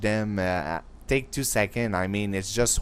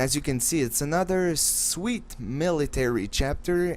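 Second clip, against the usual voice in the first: sarcastic mock enthusiasm, pitched up; lifted, falsely keen tone with real sarcasm; 5 semitones higher than usual. Real, not acted. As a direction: feign delight at something you really hate. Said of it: "I'm being sarcastic".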